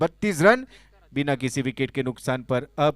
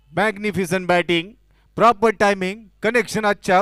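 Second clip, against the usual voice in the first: excited cricket commentary; 4 semitones higher, 5 dB louder than usual. Real, not acted. Praising the six.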